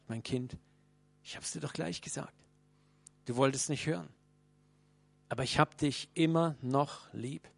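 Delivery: put-on a soft, tender reassurance to a fallen child; friendly, kind. Preacher voicing God to a broken believer, tender. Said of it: "spricht freundlich zu dir".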